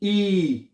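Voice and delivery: ई as long "ee"; German I as "ee". Shown as a demonstration. Teacher answers how I is read, long "ee". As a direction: say ई, not "eye". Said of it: "आई को आपने क्या पढ़ना है".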